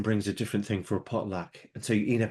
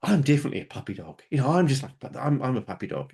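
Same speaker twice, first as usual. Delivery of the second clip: eager puppy-dog friend; 4 semitones higher, 4 dB louder than usual. Retold or imitated. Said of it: "she goes".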